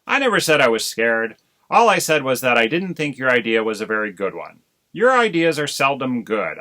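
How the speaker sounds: loud, quick, huffy self-defence. Acted. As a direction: save face before his wife. Husband defends himself huffily.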